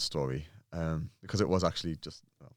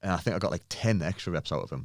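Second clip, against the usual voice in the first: ordinary delivery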